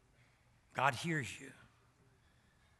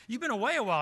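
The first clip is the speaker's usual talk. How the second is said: Steve's voice; 10 semitones higher, 8 dB louder, much faster than usual. Retold or imitated.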